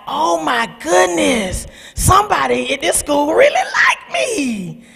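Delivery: amazed. Retold or imitated. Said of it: "I was like".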